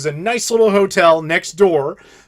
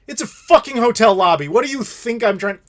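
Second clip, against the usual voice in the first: exasperated retort; 5 semitones higher than usual. Retold or imitated. Retells snapping back at clerk.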